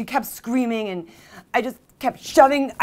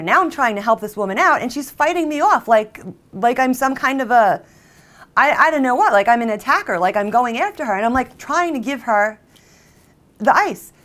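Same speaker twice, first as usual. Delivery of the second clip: indignant; 2 semitones higher, 5 dB louder than usual. Acted. Indignant at being fought off.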